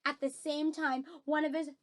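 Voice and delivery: animated reading, stretching the impact word; lively story narration. A narrator's reading. Reader recounts the accidental punch and kick, lively story narration. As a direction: tell the mishap with relish on each blow.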